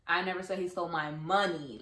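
money marked with a falling end; stress on MONEY. Shown as a demonstration. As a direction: land on money. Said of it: "the words that you stress".

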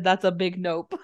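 mock it while laughing. Friend mocks the heroine's line, laughing. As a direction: repeat her line through a laugh. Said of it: "she lied to herself when she said".

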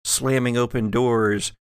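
ordinary delivery

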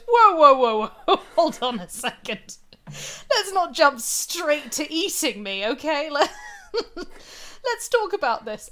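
high, hurried-to-stop-you protest, half laughing; alarmed talking cat. Acted. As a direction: plead comically for a moment to talk. Cat stops heir from eating him.

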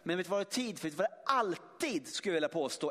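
ordinary talk, nothing marked

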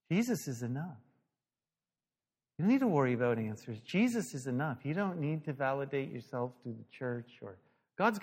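soft, quietly earnest; gentle reassurance. Retold or imitated. Facilitator beside the pastor reassuring him, soft and gentle. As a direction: imitate a tender counselor, pausing between thoughts.

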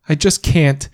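high, voice breaking with tears; crying. Acted. Mother sobbing to her husband, high and breaking. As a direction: plead through sobs, it's all too much.

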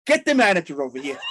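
firm demand. Retold or imitated. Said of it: "I go like that".

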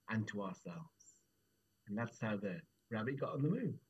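measured storytelling with lingering pauses; unhurried, falling storyteller cadence; story narration. A narrator's reading. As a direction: close a folk tale gently, phrase by phrase. Storyteller closes the folk tale.

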